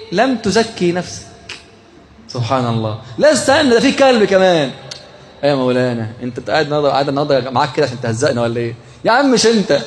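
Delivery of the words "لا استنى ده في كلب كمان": high, eager "wait, there's more"; excited higher interjection; excited interruption. Acted. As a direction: jump in with mock excitement.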